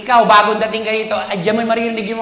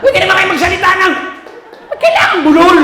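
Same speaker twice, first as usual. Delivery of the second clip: higher, louder shouted complaint; mock outrage; 9 semitones higher, 6 dB louder than usual. Comedian mocking the baby talk, loud and laughing. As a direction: yell it through laughter.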